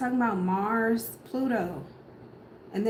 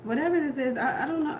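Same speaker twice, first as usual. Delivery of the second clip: laughing; 4 semitones higher than usual. Real, not acted. Laughs while reading cards.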